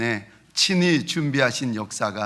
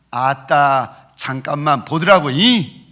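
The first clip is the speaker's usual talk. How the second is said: Jeolla dialect; 4 dB louder, slower than usual. Retold or imitated. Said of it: "전라도 말로는".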